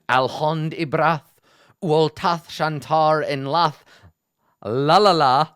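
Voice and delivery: hammed-up Elvish chant; mock Elvish inscription. Shown as a demonstration. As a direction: intone the inscription slowly like an elvish spell. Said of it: "that is literally a word in Elvish".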